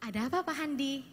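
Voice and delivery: soft, gentle question. Shown as a demonstration. Trainer's first try at addressing a volunteer, gentle. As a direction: ask it softly and kindly, without pressure. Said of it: "Yang pertama".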